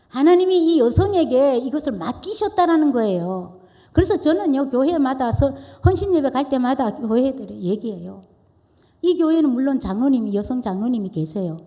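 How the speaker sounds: loud, driving pulpit voice; full-force preaching. Acted. Pastor urging the congregation to honour women, loud preaching. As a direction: proclaim it to the whole congregation.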